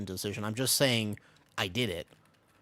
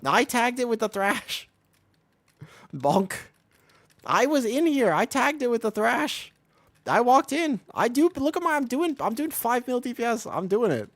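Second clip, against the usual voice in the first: much higher, louder, slow gleeful bragging; excited laughing brag; 12 semitones higher, 7 dB louder than usual. Real, not acted. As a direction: crow over the big hit with a laugh.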